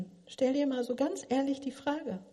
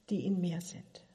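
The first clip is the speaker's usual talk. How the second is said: whisper; 5 semitones lower, 6 dB quieter than usual. Real, not acted. Whispered phrase.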